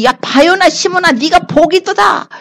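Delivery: Jesus rejoicing over Peter, lifted high; overjoyed. Acted. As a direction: burst with a master's joy at the answer. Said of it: "너무 기쁘셔가지고".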